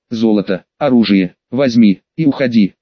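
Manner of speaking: low, broken gurgling creature voice. Acted. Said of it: "забулькал".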